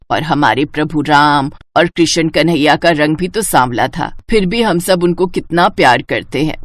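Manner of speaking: calm a hurt daughter; gentle mother. Acted. Mother comforting her crying daughter, lightly voiced.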